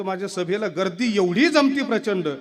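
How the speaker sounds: a politician puzzling over his lost votes, with a laugh; booming rally-stage complaint, hammed up; Raj Thackeray impression. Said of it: "Raj Thackeray म्हणतो".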